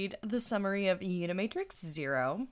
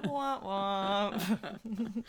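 mock sad trombone; 2 semitones higher than usual. Mock sad trombone after summary.

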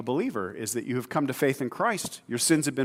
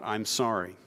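sincere sorry; 4 semitones lower, 5 dB quieter than usual. Retold or imitated. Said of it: "serious about".

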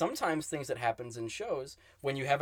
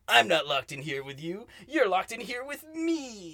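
slow, menacing villain line; dramatic movie villain quote; 5 semitones higher, slower than usual. Retold or imitated. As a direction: lean into the big threat, slowly. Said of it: "I bungled that".

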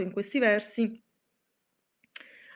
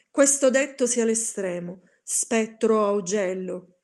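lost, shouted cry; 5 dB louder than usual. Acted. Narrator, lost, screams at the raven to be gone. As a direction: yell in lost despair. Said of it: "urlai sperduto".

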